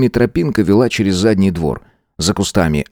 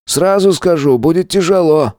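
higher teacher voice, a serious warning; 10 semitones higher than usual. A narrator's reading. Roman warning the newcomer about the job, serious. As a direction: warn him it will be hard. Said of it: "предупредил Роман".

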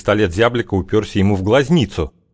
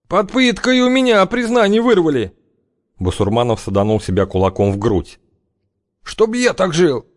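визгливый оправдывающийся Басурманов; 10 semitones higher than usual. A narrator's reading.

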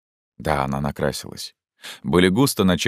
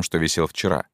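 ordinary talk

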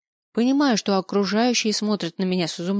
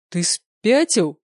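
slow hoarse disbelief, louder; hoarse, stunned; 4 dB louder, much slower than usual. A narrator's reading. Stunned hoarse question to the angel. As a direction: rasp it out in shock. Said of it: "Голос хрипит".

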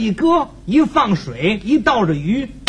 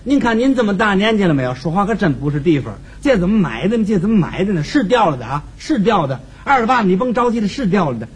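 smoothing over; 4 semitones lower than usual. Acted. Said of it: "打算从中呢给打个圆盘".

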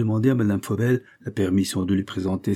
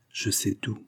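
soft, confiding revelation; lowered voice; 7 dB quieter, slower than usual. A narrator's reading. Visitor revealing to two women that he knows the secret, lowered voice. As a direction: drop the volume, confidentially. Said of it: "en baissant la voix".

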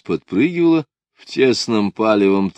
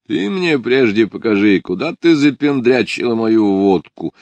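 louder, grumbling demand; displeased; 5 semitones higher, 6 dB louder than usual. A narrator's reading. Ardalion demands where Lida hid his vodka, displeased. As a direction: demand it back with annoyance. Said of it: "недовольно проговорил Ардальон".

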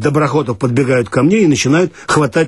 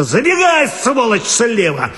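shouting; 9 semitones higher than usual. Acted. Watchman yelling to the boy.

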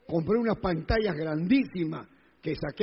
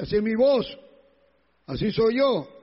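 raised, insistent retold protest; imitated loud talker; 3 semitones higher, 4 dB louder than usual. Preacher re-enacts defending his loud voice, raised protest. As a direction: insist a little loudly, as if justifying it. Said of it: "Pero baja la voz".

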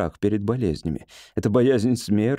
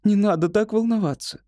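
high-voiced, patient reassurance; patient soothing; 11 semitones higher than usual. A narrator's reading. Wife tells husband to calm down, patiently. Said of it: "терпеливо сказала Этель".

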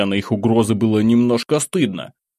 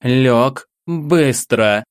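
loud, high furious command; angry shout; 4 semitones higher, 3 dB louder, much slower than usual. Acted. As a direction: shout the order at him. Curator orders the boy down. (гневный окрик)

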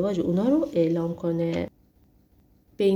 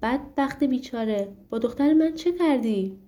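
angry shout; 4 semitones higher than usual. Acted. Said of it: "فریاد زد".

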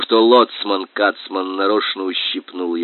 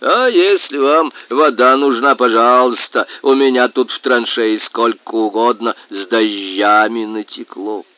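grunting boar voice; 4 dB louder than usual. Acted. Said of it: "хрюкал он".

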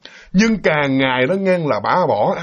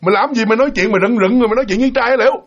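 snapping shout; 5 semitones higher, faster than usual. Retold or imitated. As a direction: bark at the girl to explain herself. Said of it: "Vừa bước ra nạt lên".

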